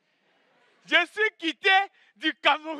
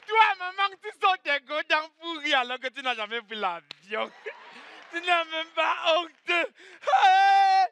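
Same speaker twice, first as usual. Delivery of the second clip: scolding; 3 semitones higher, slower than usual. Acted. Scolding mother, shouting.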